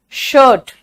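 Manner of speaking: शर्ट with the er held long; stretched vowel. Shown as a demonstration. Teacher telling students to stretch it, elongated vowel. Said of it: "थोड़ा सा खींचो".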